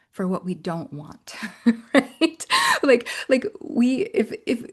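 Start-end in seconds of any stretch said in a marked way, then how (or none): 1.6-4.6 short laugh into a question; amused laugh. Real, not acted. Laughing at the idea of somatic talk, amused. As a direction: laugh it off, then ask.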